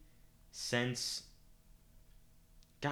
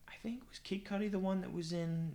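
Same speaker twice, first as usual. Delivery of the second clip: whispering; 10 semitones higher, 3 dB quieter than usual. Real, not acted. Muttering to self.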